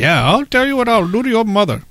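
a creepy caller taunting; menacing telemarketer. Retold or imitated. Telemarketer quote.

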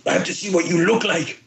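high imitated co-star voice; Tamora. Co-star curious to see the actor, high put-on voice. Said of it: "He goes".

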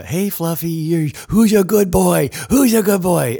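put-on high, loud baby talk to a dog. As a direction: coo at a good boy. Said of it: "when you talk to your dog".

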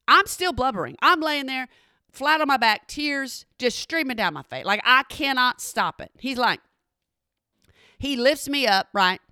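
usual speaking voice

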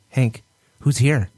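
slow sing-song "who's here?" to the dog; talking to a dog. Shown as a demonstration. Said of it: "I do that to fuck with my dogs".

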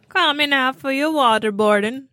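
put-on a barely there Jamaican accent on waterboarding; half-hearted try at a Jamaican accent; weak Jamaican accent. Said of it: "I didn't even say that right".

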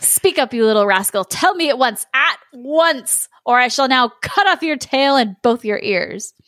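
impatient storybook villain, mildly hammed-up; lightly voiced threatening wizard. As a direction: demand it as an impatient wizard, punching each order.

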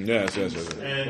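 put-on British accent. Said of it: "I don't know why it's British".

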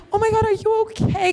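high-pitched voice of an alarmed star; concerned celebrity. Retold or imitated. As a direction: imitate a startled idol checking on a fan. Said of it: "And she was like".

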